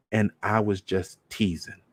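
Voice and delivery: girl echoing her uncle, cold mockery; mocking echo. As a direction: hand his own words back to him coldly. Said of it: "just how he said it".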